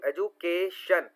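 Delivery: "एजुकेशन" slowly split as ए-जु, के, शन; syllable by syllable. Shown as a demonstration. Teacher showing students the syllables, "एजुकेशन" slowly broken up. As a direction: break "एजुकेशन" into separate beats. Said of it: "तोड़ तोड़ के word को पढ़ना".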